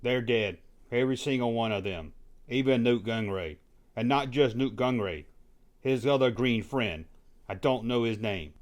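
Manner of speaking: quiet, subdued confession of hatred; Anakin. Acted. Anakin answers the host about Nute Gunray, quietly brooding. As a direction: keep it low-key and brooding, softly spoken. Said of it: "So, Anakin, what about Nute Gunray?".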